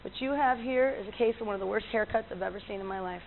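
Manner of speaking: deadpan retold vet's verdict; imitating a vet, softly matter-of-fact; no irony. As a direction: deliver it as a serious diagnosis, understated. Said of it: "with no irony at all".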